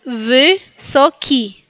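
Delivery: "wysoki" as vy-so-ki, Y between E and I; Y versus I. Shown as a demonstration. Teacher gives second example, contrasting Y and I in "wysoki". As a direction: separate syllables of "wysoki", only the last a clear I. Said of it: "Ven la diferencia entre la Y y la I".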